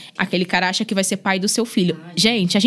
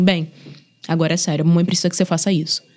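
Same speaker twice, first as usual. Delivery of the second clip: firm serious tone; 5 semitones lower than usual. Retold or imitated. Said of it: "Muda o tom de voz".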